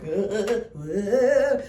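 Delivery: imitated drunken "uh" noises; drunk slurred grunts. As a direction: mimic a drunk kid mumbling wordlessly. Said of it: "he was so drunk".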